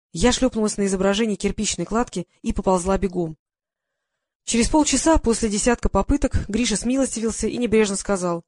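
plain reading voice

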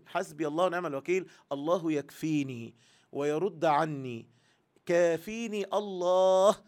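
calm, sincere trust in God; sincere entrusting. Shown as a demonstration. Teacher showing the right way to say it, sincere calm. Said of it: "يا، يا فندم".

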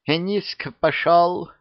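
slow, high musing; mild wondering witch; pensive. Acted. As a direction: drawl it thoughtfully to herself. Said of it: "задумалась яга".

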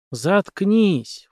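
a dismissive snort at someone; snorting, mildly irritated dismissal; snorted retort. A narrator's reading. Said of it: "фыркнул режиссёр".

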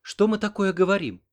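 high, playful flirting question; coquettish. A narrator's reading. Nurse teases her American admirer, coquettish. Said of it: "кокетливо спросила Оксана".

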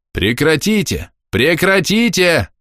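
police officer yelling at the fighting women. A narrator's reading. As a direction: roar to stop the brawl. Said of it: "орал участковый".

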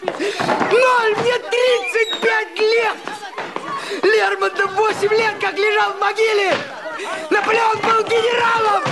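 despairing rant. Acted. Husband rants at family.

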